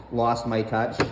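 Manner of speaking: lost my touch, low and mocking as if in air quotes; sarcastic air quotes. Shown as a demonstration. Son mocks mom's claim with sarcastic air quotes. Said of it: "And I say that with finger quotations".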